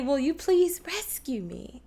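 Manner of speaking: pleading weight on "rescue"; stress on RESCUE. Shown as a demonstration. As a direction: give "rescue" the accent. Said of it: "So I might say".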